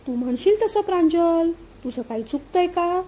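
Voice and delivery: sing-song mock of his sweet talk; mocking mimicry. Mother mimicking son's phone flattery, mocking. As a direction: tease his buttering-up tone. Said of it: "आधीच किती मस्का लावतोय ते".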